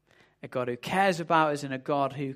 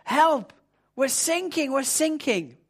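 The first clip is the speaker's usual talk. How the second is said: high, loud panicked radio call; desperate mayday shout, pitched up high; panicked cry for help; 9 semitones higher, 3 dB louder, slower than usual. Acted. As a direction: yell it like a sailor whose ship is going down. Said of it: "the voice came through again".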